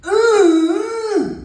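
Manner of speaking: high, loud schoolyard ooh; mocking ooh. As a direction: squeal a sing-song ooh. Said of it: "we go".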